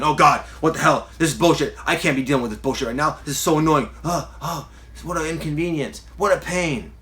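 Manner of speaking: mock irritated rant at an unwanted feeling; annoyed complaining. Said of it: "That's not very nice".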